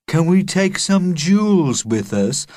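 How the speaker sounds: a greedy schoolboy asking; boy's voice. Acted. Greedy boy Kev asks.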